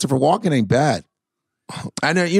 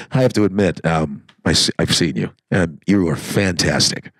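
much lower, halting polite white guy; stiff white guy voice; 9 semitones lower than usual. Shown as a demonstration. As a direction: play a stiff awkward fan. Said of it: "He goes like this".

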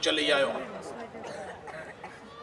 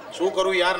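exasperated; 3 semitones higher, 4 dB louder than usual. Retold or imitated.

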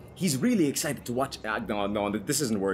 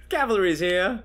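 mock sassy lady, higher and louder; 5 semitones higher, 5 dB louder, slower than usual. The speaker snapping her fingers at the neighbour, mock sassy. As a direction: snap it with attitude. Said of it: "like a sassy black independent lady".

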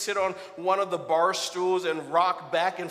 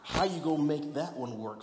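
softer, skeptical questioning voice; hushed mock challenge from the pews; imagined doubting listener; 4 semitones lower, 8 dB quieter than usual. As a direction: voice the congregation's doubt quietly. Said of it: "you may be asking".

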